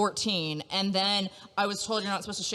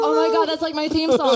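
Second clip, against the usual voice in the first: excited; 4 semitones higher, 6 dB louder than usual. Real, not acted. Excited about Barbie song.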